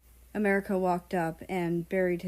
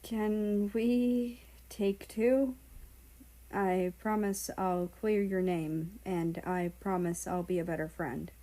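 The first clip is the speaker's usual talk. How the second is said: tender. Acted. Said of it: "tenderness pooled in his eyes as he spoke".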